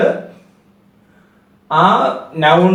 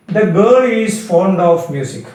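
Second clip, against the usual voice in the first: slow dictation; much slower than usual. Shown as a demonstration. Teacher dictates example sentence.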